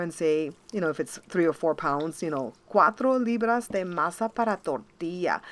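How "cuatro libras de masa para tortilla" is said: a light imitation of kids' cute Spanish accent; a hint of a cute Spanish accent, imitating the boys. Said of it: "with such a cute Spanish accent".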